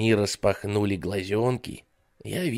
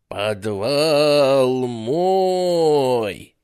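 very slow, louder eerie ghost; 4 semitones higher, 6 dB louder, much slower than usual. Acted. Storyteller voices the basement ghost, slow eerie menace. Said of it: "говаривал призрак".

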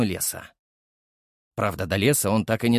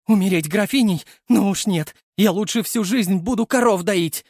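высокий громкий визг; взвизгнуть, убегая в панике; 8 semitones higher, 4 dB louder than usual. Acted. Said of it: "взвизгнула она". (Мариночка взвизгивает, выбегая из поместья)

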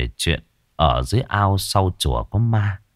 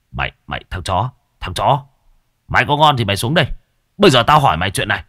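angry; faster than usual. Acted. Đại furious at Ngưu.

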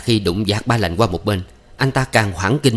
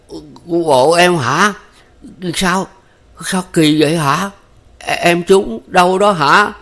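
high, loud, slow panicked stammer; stumbling over words, scared for her; stammering in fright; 9 semitones higher, 5 dB louder, slower than usual. A narrator's reading. Ba Lành frightened, asking his wounded wife, stammering. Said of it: "lắp bắp hỏi gọi".

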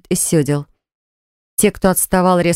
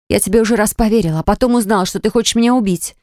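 higher, faster, heated; heated high argument; 4 semitones higher, faster than usual. Acted. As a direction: rattle it off, indignant and higher. Alicia argues heatedly.

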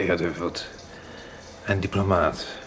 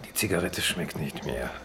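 whisper; 5 dB quieter than usual. Acted. Doctor smoking, quiet resignation.

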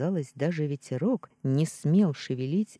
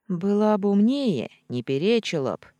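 sharp rebuke; 6 semitones higher, 6 dB louder than usual. Acted. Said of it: "осадила её Черри".

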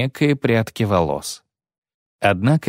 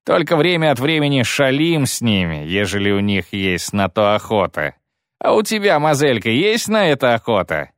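1 leering; 4 semitones higher than usual. Acted. Kayley leering at the girl.

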